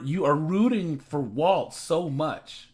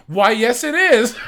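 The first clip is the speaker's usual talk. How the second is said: high, loud hammed-up Southern belle; exaggerated Southern lilt, mocking a bad actress; mock Southern accent; 8 semitones higher, 11 dB louder than usual. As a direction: put on a fake Southern accent, breaking into laughter. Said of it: "allude to her having an accent".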